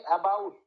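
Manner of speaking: অ্যাবাউট with weight on its second syllable; second-syllable stress. Shown as a demonstration. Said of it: "তাহলে দ্বিতীয় সিলেবেলে stress হচ্ছিল".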